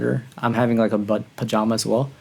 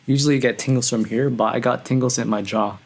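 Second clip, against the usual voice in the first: talking through a mouthful of cereal; chewing cereal while talking; eating cereal. Real, not acted. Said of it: "I'm eating cereal right now".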